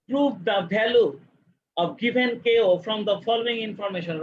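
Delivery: reading it out word by word; slow dictation. Shown as a demonstration. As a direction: spell it out slowly for students. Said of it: "reading the question aloud".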